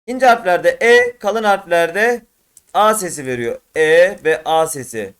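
slow, loud, drawn-out vowel sounds E and A; vowel sound demo. Shown as a demonstration. Teacher showing students the vowel sounds, slow and loud. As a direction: spell out the E and A sounds slowly for students. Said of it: "E A sesi veriyor arkadaşlar".

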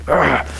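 mock frustrated growl; short demonstrated "ugh" of anger; angry grunt. Preacher showing how he gets upset, mock angry grunt. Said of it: "I get upset and mad and angry".

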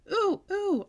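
eager high squeal, loud; hollered real loud. A narrator's reading. Girl begs teacher to be called on, loud eager squeal. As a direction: squeal to get picked first. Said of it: "I hollered real loud".

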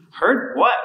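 sharp high shout of confusion. Acted. Thomas snapping at Peter, a high shout. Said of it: "I shouted".

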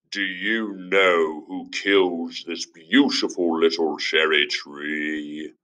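a hint of a stern father; lightly voiced father. Father questioning his son, a touch stern. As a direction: ask it slowly like a father probing. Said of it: "he asked".

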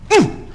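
short mock tugging grunt; effortful grunt. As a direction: grunt as if pulling out a thorn. Mouse tugging at the thorn.

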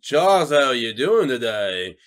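slow, a lightly voiced Magneto; drawn-out villain greeting to an old friend; half-hearted Magneto impression. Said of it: "I can do a, a Magneto".

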